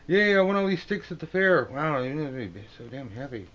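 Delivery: high, loud eager voice; excited card figure. Acted. Card figure excitedly wanting things at the fair, high and loud. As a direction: bubble over with high excitement.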